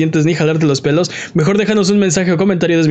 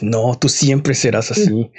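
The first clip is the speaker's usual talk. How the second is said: low, slow, laughing as you say it; laughing mock scolding; 5 semitones lower, much slower than usual. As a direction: tell the fish off through a laugh. (riendo, regaño burlón lento)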